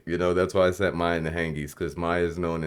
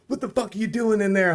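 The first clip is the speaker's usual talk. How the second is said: mock yell, pitched much higher; imitated angry demand. Retelling a rival crew pulling up on him, mock angry. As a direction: bark it like a rival catching you. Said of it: "they're like".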